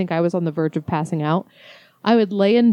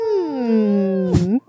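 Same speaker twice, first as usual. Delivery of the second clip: hum. Shown as a demonstration. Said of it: "plug your nose and try to hum".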